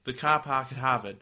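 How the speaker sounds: weak mock Boston accent; failed Boston accent. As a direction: attempt at a Boston accent, dropping the r in car park. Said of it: "I can't do a Boston accent".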